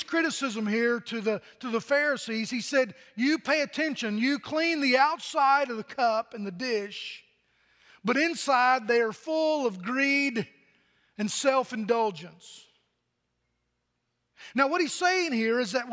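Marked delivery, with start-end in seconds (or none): 3.2-12.7 emphatic scripture reading. Acted. Pastor repeating Jesus' rebuke to the Pharisees, slow and emphatic. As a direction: drive the verse home.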